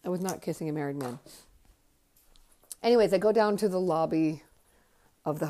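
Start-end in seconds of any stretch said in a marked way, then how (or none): 0.0-1.2 fast, cheerful rattle-off of the same line; quick happy repeat. Real, not acted. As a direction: rush it out gleefully, relieved.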